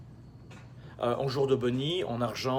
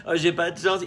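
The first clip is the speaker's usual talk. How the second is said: whiny complaint; 4 semitones higher, 6 dB louder than usual. Retold or imitated. Mocking whiny rich entrepreneur.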